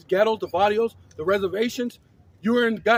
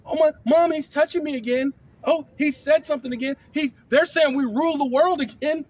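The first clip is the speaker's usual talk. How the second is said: higher, louder mock tattletale whine; hammed-up kid telling on a brother; whiny tattling little sibling; 4 semitones higher, 3 dB louder than usual. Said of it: "You're using it like a child".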